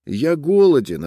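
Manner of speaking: lightly voiced hungry boy. A narrator's reading. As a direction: ask for food. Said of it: "ответил мальчик".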